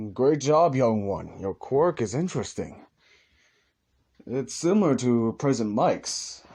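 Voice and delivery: All Might voice. Acted.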